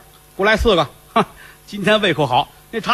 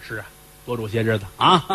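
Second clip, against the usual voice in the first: lower, softer knowing echo; heavy master; 6 semitones lower, 5 dB quieter than usual. Acted. Fifth Master echoes caretaker, low soft knowing. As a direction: answer with a sly weight.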